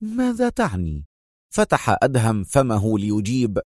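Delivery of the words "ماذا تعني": high, sharp demand; sharp question. A narrator's reading. Consul questions Adham about his proposal, sharp. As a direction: demand it tensely, pitched high. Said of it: "وهو يقول في حدة".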